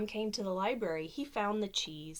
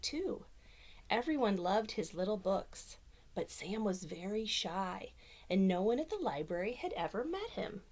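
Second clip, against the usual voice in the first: lively storybook reading voice; reading to children. Acted. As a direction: read it like bedtime story time. Reads picture book aloud.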